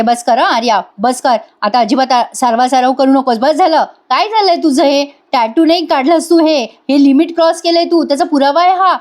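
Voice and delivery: a hint of a furious sister-in-law; imitating an angry wife. Nandini angrily cuts Arya off.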